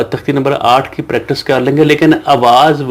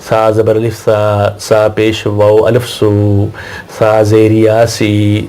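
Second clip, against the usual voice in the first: slow syllable drill; much slower than usual. Shown as a demonstration. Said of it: "پھر سنیں،".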